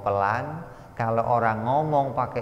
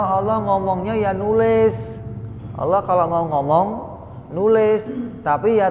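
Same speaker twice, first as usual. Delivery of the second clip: higher and louder, a scoffing caricature of the rival teaching; ridiculing a wrong belief, higher and louder; mocking the opposing view; 8 semitones higher, 4 dB louder than usual. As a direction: send up their claim with a raised mocking voice. Mimicking a doctrine he rejects.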